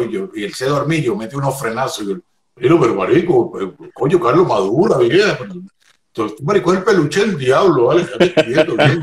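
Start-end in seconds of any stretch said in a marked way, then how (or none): 2.5-9.0 loud, rattled complaint; startled protest. Retold or imitated. Startled passenger scolds the driver for braking, loud protest. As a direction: blurt out an indignant protest.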